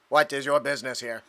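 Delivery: flat robotic drone voice. Acted. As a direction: speak it like a machine. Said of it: "Give him a robotic voice".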